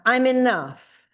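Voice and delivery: strong demo of a self-affirming cry; shouted affirmation. Shown as a demonstration. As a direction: shout it out with conviction. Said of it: "I want you to shout out".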